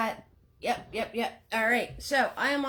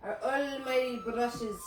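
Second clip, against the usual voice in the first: softly tried, amateur Irish lilt; attempted Irish accent; 5 dB quieter than usual. Shown as a demonstration. Painter playfully trying an Irish accent on the almighty brushes. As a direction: have a shaky go at an Irish accent. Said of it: "Trying to do an Irish accent".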